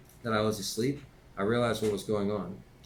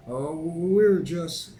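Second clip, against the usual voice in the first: stuttering; 9 semitones higher, 8 dB louder, much slower than usual. Acted. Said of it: "started stuttering".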